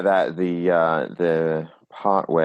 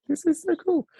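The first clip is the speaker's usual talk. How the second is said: excited. Retold or imitated. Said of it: "I was like".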